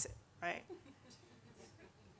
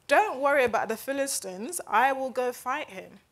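imitating David's bold assurance, slightly raised; courageous and bold; 2 semitones higher, 4 dB louder than usual. Preacher quoting David volunteering to fight, bold and confident. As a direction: announce it with confident resolve. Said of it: "said with so much courage".

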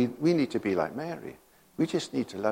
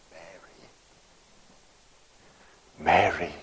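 tender calling; 7 semitones lower than usual. Retold or imitated. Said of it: "And Jesus said one word".

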